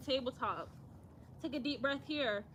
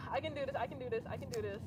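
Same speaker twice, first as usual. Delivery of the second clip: soft repeated self pep talk; hyping oneself up; 6 dB quieter, faster than usual. Real, not acted. Yoga host before a daunting backbend, quietly hyping herself up. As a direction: psych yourself up under your breath. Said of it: "I have to hype myself up".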